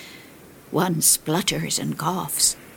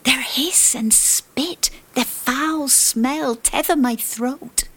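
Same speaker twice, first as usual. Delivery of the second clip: higher-pitched, haunted narration; a touch of fear, pitch raised; acted dread; 6 semitones higher than usual. A narrator's reading. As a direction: pray for mercy with voice pitched up. Child frightened by ghosts and ghouls.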